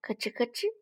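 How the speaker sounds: spoken crunching noise; imitated munching. Little dinosaur eating red fruit, munching noise. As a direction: make crisp little chomping syllables.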